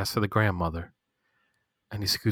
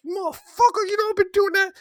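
mock Tara. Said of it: "she's like".

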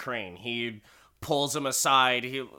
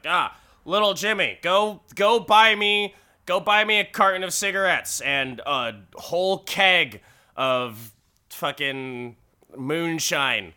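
loud, pitched-up errand-giver voice; mock adult ordering a kid; 4 semitones higher, 6 dB louder than usual. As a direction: holler an errand at a little kid, hammed up. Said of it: "you're just like".

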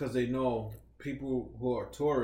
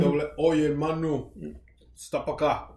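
Rapper impression; 3 semitones higher, 5 dB louder than usual. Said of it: "Oh, that rapper".

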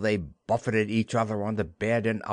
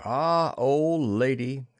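slow, drawn-out address; fond aside; 3 semitones higher, 3 dB louder, slower than usual. A narrator's reading. Peter by the fire to Wendy, slow aside. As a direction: draw it out as an aside to her. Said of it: "Peter said aside to Wendy".

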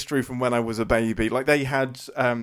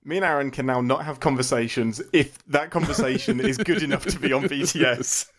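normal talking voice

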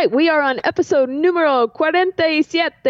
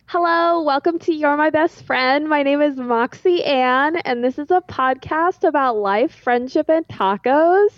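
put-on Valley Girl voice. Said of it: "a terrible Valley Girl".

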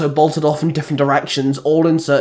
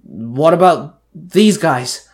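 barking; 3 semitones higher, 4 dB louder, much slower than usual. Acted. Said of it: "Cole barked".

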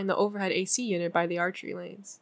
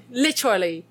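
a hint of a British accent; British-tinged literally; 3 dB louder than usual. Jade scolding Kit, lightly British. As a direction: clip it a little British. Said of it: "I love the way where she was like".

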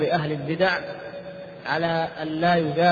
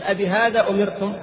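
rebuking question, pitched up; disapproving question; 4 semitones higher than usual. Retold or imitated. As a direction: ask it as a stern reproach. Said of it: "سألهم سؤال المنكر".

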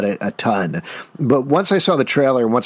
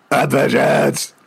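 a second slower take, weight on vengeance; mock Batman line; slower than usual. Trying the Batman line again, slow and heavy. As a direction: lean on the word vengeance, brooding hero. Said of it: "then say your vengeance".

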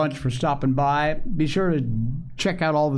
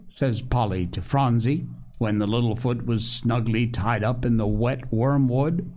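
usual speaking voice

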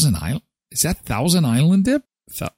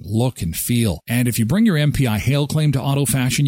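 upbeat radio ad read, quick and punchy. Acted. Host reading a sponsor ad for a body shop, upbeat. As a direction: sell it like a local radio spot.

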